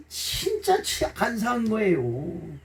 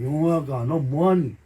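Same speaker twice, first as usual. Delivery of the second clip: voice of God; 8 semitones lower than usual. Acted. God's voice calls from conscience.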